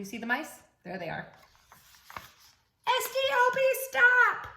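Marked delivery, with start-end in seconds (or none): 2.9-4.5 high, loud spelled-out stop; shouted stop. Acted. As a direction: call out STOP to the children. Repeated stop refrain.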